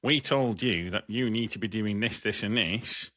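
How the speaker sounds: put-on slipping into a Yorkshire accent; officious complaint with a bit of Yorkshire. Company official blaming the driver, in a Yorkshire accent. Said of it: "I did go a little bit Yorkshire".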